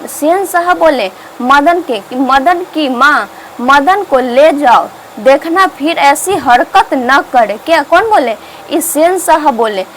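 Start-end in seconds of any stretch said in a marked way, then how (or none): 2.1-7.6 slow, drawn-out admonishing quote; retold stern order. Sen sahab tells Madan's mother to take him away, retold slow warning. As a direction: deliver the warning slowly, word by word.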